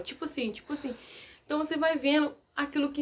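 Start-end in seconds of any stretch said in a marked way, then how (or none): 0.0-0.9 soft, mumbled filler words, much quieter; mock filler habit. Shown as a demonstration. Showing viewers a speech tic, mumbled much softer. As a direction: toss off the filler as a lazy mumble. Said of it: "se você toda hora fala".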